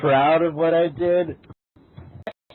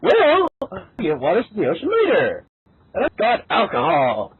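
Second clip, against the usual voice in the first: much higher, fast and bright; high cheery voice; 5 semitones higher, 4 dB louder than usual. Acted. Character announcing a plan, high and quick. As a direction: jump way up and rattle it off.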